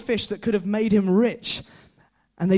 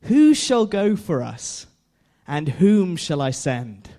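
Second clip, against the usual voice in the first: voice of God; slower than usual. Retold or imitated. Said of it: "the voice of God says".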